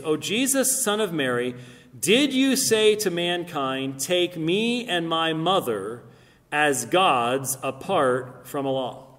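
slow, emphatic divine questioning; declaimed scripture quote. Acted. God questions Jesus on the day of judgment, slowly declaimed. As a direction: spell out each phrase of the verse weightily.

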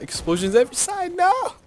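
high, loud shout climbing to a cry; loud gamer outcry; real panicked yell. Real, not acted. Overwhelmed by explosions in game.

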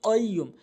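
কাইয়্যুম starting with a back-of-tongue q; deep qaf. Shown as a demonstration. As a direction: start কাইয়্যুম with tongue root against the palate. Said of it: "বলতে হবে".

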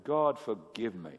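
sincere prayer. Retold or imitated. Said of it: "if we're sincere about it".

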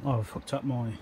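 normal talking voice

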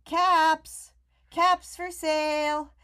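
lightly voiced peddler's street cry; calling.

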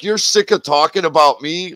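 high mock Karen whine; hammed-up Karen voice; mocking Ladybug. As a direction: parody her indignant question. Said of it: "she's like".

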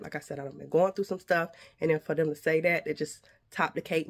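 talking with retainers in; slight lisp from retainers. Real, not acted. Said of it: "Y'all know I got my retainers in".

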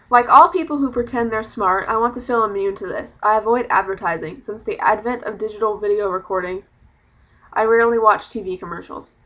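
plain book read-aloud, even running phrases; casual amateur read-aloud. Real, not acted. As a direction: read the passage out to listeners, unpolished. Reads a book passage aloud.

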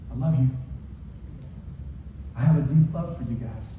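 low, sincere reassurance; tender endearment. Acted. Jesus reassuring the disciples who left him, tender. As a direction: say it low and lovingly. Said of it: "it was a term of endearment".

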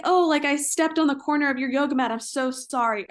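mimicking a woman who apologizes over a yoga mat, mock gushing; mock over-apology. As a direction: gush a needless sorry as a parody. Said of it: "people kept saying sorry".

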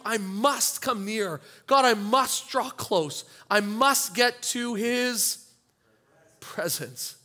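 slow, pleading prayer; earnest prayer. Retold or imitated. Believer crying out to God for nearness, slow and earnest. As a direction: draw each phrase out with longing.

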